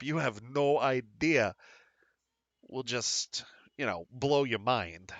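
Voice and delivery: lightly voiced bartender selling the specials; a hint of an eager bartender; bartender pitch. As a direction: sell the menu like a proud barkeep. Bartender Stevie pitches the menu.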